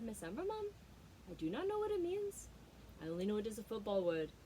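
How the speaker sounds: lightly voiced small boy; an innocent little boy explaining; child's answer. A boy telling his coach, lightly childlike. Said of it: "he said".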